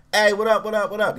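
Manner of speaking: high, quick gang-style greeting; calling out greeting. Retold or imitated. Teen to his passing brother and friends, calling out greeting. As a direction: hail your friends as they walk by.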